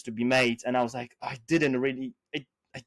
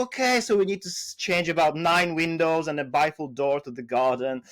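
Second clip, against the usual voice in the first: retold customer; 2 semitones higher than usual. Client asks the seller for a window quote, retold customer. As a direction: lift the pitch to play the customer.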